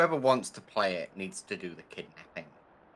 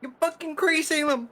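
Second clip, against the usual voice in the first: even higher, louder royal fury; roaring tyrant king; 5 dB louder than usual. Pretend. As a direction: scream the order like a tyrant. Yelling at bug in game.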